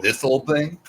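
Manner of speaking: fake modesty. Showing off the raid belt.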